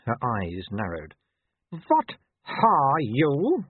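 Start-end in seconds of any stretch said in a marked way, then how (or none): 1.7-3.7 very slow, high, icy she-wolf; icy disdain. A narrator's reading. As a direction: draw out each word with cold contempt. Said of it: "Ice slithered off every syllable".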